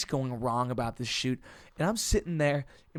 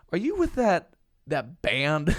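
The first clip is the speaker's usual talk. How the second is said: incredulous question; 2 semitones higher, 4 dB louder, slower than usual. Retold or imitated. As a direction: imitate baffled onlookers, pitched up. Retelling others' incredulous question.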